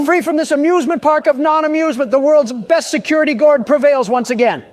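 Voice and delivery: high, loud triumphant squeal; helium voice. Real, not acted. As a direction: crow it like a victory. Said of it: "Pardon my helium voice".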